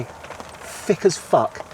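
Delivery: very slow whispered aside; whispered jab. Real, not acted. To the tolerant left, a slow whispered put-down. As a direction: breathe it out slowly under your breath.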